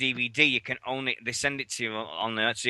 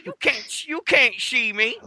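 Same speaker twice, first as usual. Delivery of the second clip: slow, higher taunt with a rising end; wrestler catchphrase; 10 semitones higher, 3 dB louder, slower than usual. Pretend. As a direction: deliver it like a ring entrance taunt.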